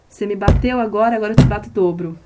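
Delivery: loud spiritual battle cry; defiant to evil. Retold or imitated. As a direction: stand up and hit back with your voice. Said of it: "sempre falo, né, pro mal".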